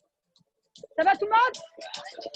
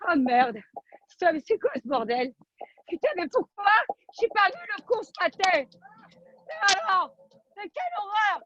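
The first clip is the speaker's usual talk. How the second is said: escalating comedy rant. Acted. Mock outrage rant to class.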